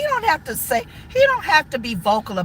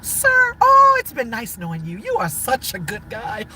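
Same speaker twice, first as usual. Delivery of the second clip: white voice. Retold or imitated. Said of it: "you put your white voice on".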